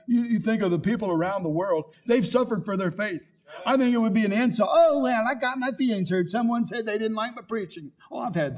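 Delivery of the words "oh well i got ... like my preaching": high mock whine of a hurt member; whiny complainer. Preacher mocking a member who quit, whiny. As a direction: mimic a touchy member, higher.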